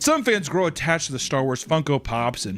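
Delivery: emphatic explainer voiceover; scripted narration. A narrator's reading. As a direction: read it out with punched key words.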